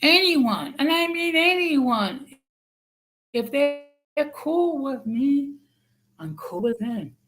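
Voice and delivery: slow and high, each word stressed; over enunciating. Shown as a demonstration. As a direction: repeat it slowly, hammering each word. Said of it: "let me repeat it slowly".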